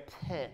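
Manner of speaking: feeble gun sound. Retold or imitated. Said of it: "sort of went".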